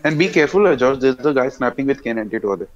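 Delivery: loud urgent warning call. Real, not acted. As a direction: shout the warning to a teammate. Warning teammate of sniper.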